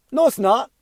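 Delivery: high, sharp denial pitched well up; indignant protest. Retold or imitated. Defending his son to the mother, high indignant no. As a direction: shoot it down hard in disbelief.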